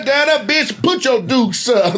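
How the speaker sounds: mock cheerleader taunt, shouted; rival cheer shout. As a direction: bellow it like a rowdy cheer squad. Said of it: "the cheers were different".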